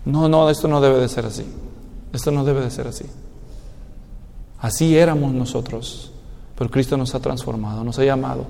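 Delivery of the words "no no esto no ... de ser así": quiet, low stubborn denial; proud refusal. Acted. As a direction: mutter the prideful refusal.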